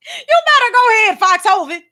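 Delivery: cheering. Real, not acted. Vlogger cheering on Foxhoven, excited cheer. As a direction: hype him up.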